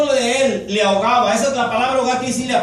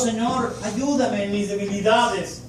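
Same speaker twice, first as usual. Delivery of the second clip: humble prayer. Shown as a demonstration. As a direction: pray it humbly, as if kneeling. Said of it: "nuestra oración con Dios".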